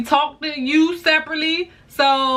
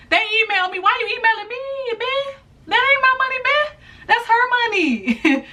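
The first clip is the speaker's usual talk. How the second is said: rising higher and higher in disbelief; exasperated rant; 9 semitones higher than usual. Real, not acted. Vlogger venting to viewers, voice climbing high in exasperation. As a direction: pitch climbs as the outrage builds. Ranting about being emailed.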